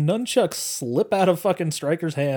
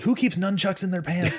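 higher-pitched, laughing imitation of disbelief; mock incredulity; 5 semitones higher than usual. Retelling Burke's reaction to the nunchucks, mock incredulous. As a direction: toss out a mock-baffled question, pitched up. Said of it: "Burke's just like".

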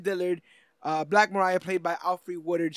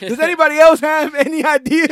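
loud, higher snapping boss; angry boss; 8 semitones higher, 12 dB louder than usual. Retold or imitated. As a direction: bark at the room like a boss. Boss reply in scene.

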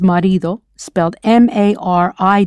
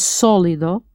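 SÓ in sólido stressed; sólido, accented at the start; stress on first syllable; 3 dB quieter than usual. Shown as a demonstration. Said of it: "with an accent over the first syllable".

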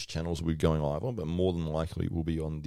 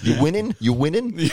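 higher, louder, laughing mock bloke; patronising "you winning"; 11 semitones higher, 9 dB louder than usual. Host mocking how blokes greet fighters, laughing patronising mate voice. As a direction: needle him like a matey pub regular. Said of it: "How you going, champ?".

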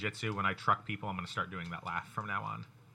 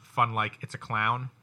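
slow teasing; 5 dB louder, slower than usual. Acted. Teasing question.

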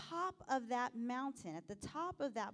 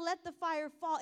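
retold yell; 3 semitones higher, 4 dB louder than usual. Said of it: "When they would yell".

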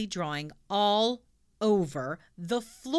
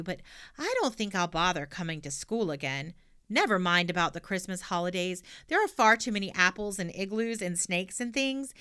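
put-on cheeky girl voice. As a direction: blurt it out brashly. Pippi tells teacher she leaves.

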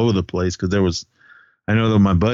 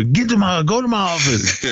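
higher-pitched retold order; mock screaming; 8 semitones higher than usual. Teacher sending a student to his office, mock yelling. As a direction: imitate an irate command without real shouting. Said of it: "started screaming at him".

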